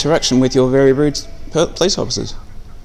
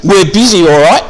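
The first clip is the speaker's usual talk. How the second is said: a mild mock of a dismissive officer brushing him off; a hint of scornful brush-off; mimicking disrespect; 3 dB louder than usual. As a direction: lightly imitate a curt "we're busy". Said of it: "in a very disrespectful manner".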